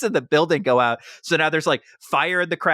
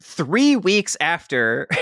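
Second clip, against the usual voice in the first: slow and higher, broken by laughter; laughing, can't get it out; 4 semitones higher, much slower than usual. Real, not acted. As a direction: try to speak through the giggles. Laughing, struggling to continue.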